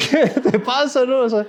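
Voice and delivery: high, laughing what's wrong with you; incredulous laughing scold; laughing disbelief. Acted. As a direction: laugh it out in mock outrage. Wife reacts to betting the house.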